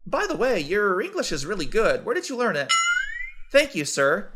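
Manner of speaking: ordinary talk, nothing marked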